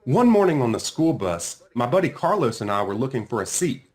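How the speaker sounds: plain reading voice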